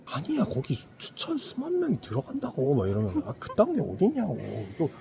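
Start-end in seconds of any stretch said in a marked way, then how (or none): 0.0-2.8 high-pitched mock villager insisting; insistent protest. Villager to doubting friend about the huge arena, insistent. 3.2-4.9 high, hammed-up incredulous villager; scornful disbelief. Villager to friend about a stone arena, incredulous. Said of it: "그럼 안 믿고".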